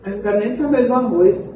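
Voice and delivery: talking with a mouth full. Real, not acted. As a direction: speak through a mouthful of food. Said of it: "Nem pode falar na boca cheia".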